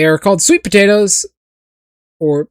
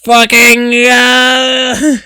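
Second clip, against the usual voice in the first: mock furious rant; 4 semitones higher than usual. Streamer ranting at potato-eating chat, mock fury. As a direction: rant like an outraged zealot.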